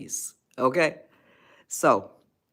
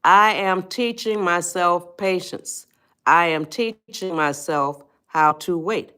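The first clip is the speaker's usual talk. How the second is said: slow, deliberate self-affirmation; measured mantra for patience; affirmation spoken aloud. Shown as a demonstration. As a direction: say it slowly like a vow to yourself. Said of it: "and say it out loud".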